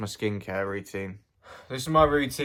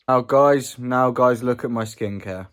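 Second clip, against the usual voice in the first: calling out; 6 dB louder, slower than usual. Real, not acted. Calling viewers' attention.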